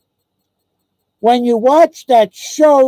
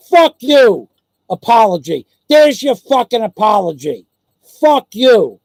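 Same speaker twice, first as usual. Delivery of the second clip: angry outburst. Real, not acted. Furious rant at the streamer.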